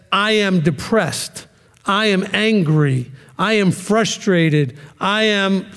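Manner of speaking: slow, heavy "am" on each line; stress on am. Shown as a demonstration. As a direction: lean hard on "am" every time. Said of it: "just keep those "I ams".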